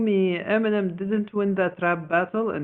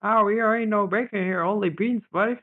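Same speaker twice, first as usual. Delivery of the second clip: put-on Texas accent; 4 semitones higher than usual. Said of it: "Do your Texas accent, Biscuit".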